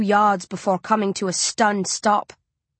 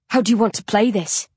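keen for the hunt; Coley asking the American, eager; excited. Acted. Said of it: "He sounds excited".

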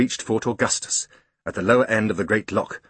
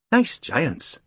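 a contented big beast; water horse thinking; 4 semitones higher than usual. Acted. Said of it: "he thought to himself".

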